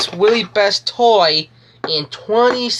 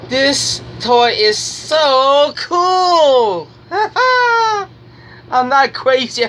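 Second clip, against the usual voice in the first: laughing; 3 semitones higher, much slower than usual. Real, not acted. Laughing while praising toy.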